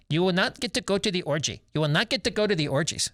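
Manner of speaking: lightly mimicked squeaky accented Zeus; a mild mock of a Jaime Jimenez voice. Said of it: "in a Jaime Jimenez, you know, um, voice".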